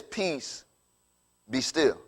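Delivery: soft, calm command; hushed command. Acted. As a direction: gently settle a storm. Jesus commands the storm to calm.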